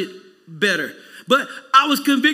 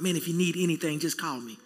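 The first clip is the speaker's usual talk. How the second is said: hollow offer; 5 semitones lower, 7 dB quieter than usual. Retold or imitated.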